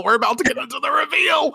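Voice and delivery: squealing teaser for the reveal; excited shout. Shown as a demonstration. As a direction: hype the word reveal like a big announcement.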